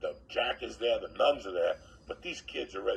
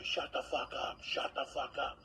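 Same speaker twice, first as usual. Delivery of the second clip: hushed; 4 semitones higher, 5 dB quieter than usual. Retold or imitated. Hushing kids in the fight.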